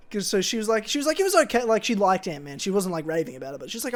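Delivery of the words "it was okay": much higher, louder mock mum voice; mum's verdict. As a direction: imitate mum shrugging it off in a high voice. Mum voiced giving lukewarm verdict.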